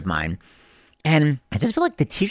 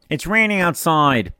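put-on slow, stretched weird-accent comeback; Mister Couture; 2 semitones higher, slower than usual. Host answering a stupid question, imitating teacher's weird accent. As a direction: imitate an odd algebra teacher, drawing it out. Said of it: "my imitation is amazing".

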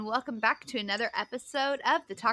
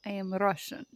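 low, soft attempt at a Russian accent; quiet, amateur Russian accent; 5 semitones lower, 8 dB quieter than usual. Shown as a demonstration. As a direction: try a hushed Russian accent. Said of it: "I can do a Russian accent".

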